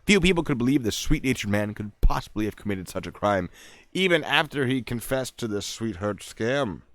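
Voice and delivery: punchy true-crime reading voice; theatrical article read, drawing out the key names; dramatic story narration. Acted. Reads article.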